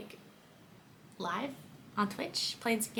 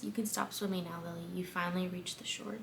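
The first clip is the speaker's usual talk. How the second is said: softer, intimate murmur at the ear; whisper; 2 semitones lower, 9 dB quieter than usual. A narrator's reading. Atlas speaking into Lily's ear, soft whisper. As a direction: breathe it close into her ear. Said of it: "in a whisper he says".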